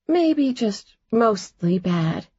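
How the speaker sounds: slow playful teasing. Acted. Teasing her fake boyfriend, slow and playful. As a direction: drag it out to needle him. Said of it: "Jordan teased".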